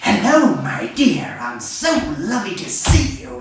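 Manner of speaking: high, loud, hammed-up sugary hello; mock sweet greeting. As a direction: gush it out like an over-the-top host.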